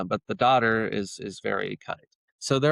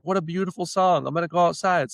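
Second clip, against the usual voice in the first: put-on higher, louder girlish delight; delighted sister; 7 semitones higher, 4 dB louder, faster than usual. Sister hears the bird's song, higher delighted voice. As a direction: gush like an excited little girl. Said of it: "his sister's like".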